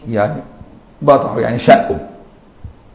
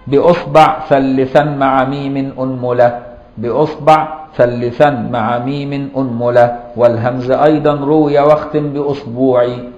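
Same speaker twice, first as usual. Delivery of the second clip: reciting verse. Shown as a demonstration. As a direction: recite the mnemonic verse for memorizing. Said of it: "ولذلك قال بعضهم".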